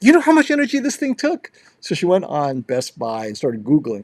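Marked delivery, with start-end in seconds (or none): 0.0-1.5 shrill, very high, loud scolding yell. Retelling a mom complaining about a TV: imitating mom yelling. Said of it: "My mom yelled at me".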